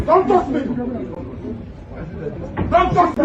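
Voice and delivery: loud, sharp don't touch me; furious warning shout; angry shout. Real, not acted. Defendant yelling at officers grabbing him, angry shout.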